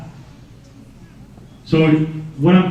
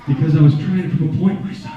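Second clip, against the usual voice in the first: wise cat voice. Pretend. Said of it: "he said".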